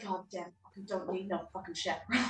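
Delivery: soft grumbling mutter under the breath. Playing a character who grumbles at a chaperone: muttering under breath. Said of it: "just under my breath be like".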